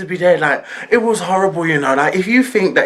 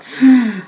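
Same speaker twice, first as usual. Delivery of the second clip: stunned sigh; 8 semitones higher, 6 dB louder than usual. Retold or imitated. Stunned after the slap.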